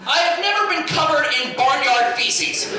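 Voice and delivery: ordinary talk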